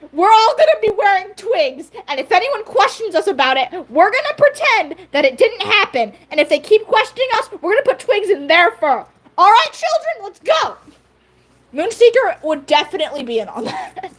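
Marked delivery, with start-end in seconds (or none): 0.1-10.8 higher-pitched playful ringleader voice; rally a little army of children with mock authority; rallying the kids. Sparrowfur recruiting clan children into her twig scheme, playfully rallying.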